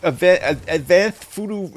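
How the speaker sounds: tripping over words, thrilled; stumbling in real excitement; excited. Real, not acted. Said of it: "I'm so excited".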